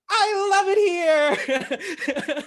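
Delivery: very high, drawn-out gleeful squeal; loud, hammed-up heroine in love with the city; Emily in Paris. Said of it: "I did my Emily in Paris thing".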